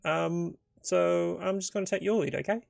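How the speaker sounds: deferring adventurer. Acted. Adventurer deferring to the dwarf on minotaurs, lightly voiced and tentative. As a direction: hand over the lead, a little unsure. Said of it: "He goes".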